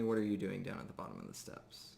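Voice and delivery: ordinary delivery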